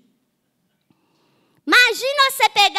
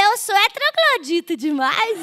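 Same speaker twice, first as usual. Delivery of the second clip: laughing; 5 semitones higher, 3 dB louder than usual. Real, not acted. Joking about herself.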